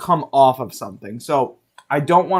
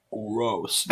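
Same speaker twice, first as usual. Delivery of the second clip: retold disgust; 6 semitones lower, 11 dB quieter than usual. Retold reaction to bad rum.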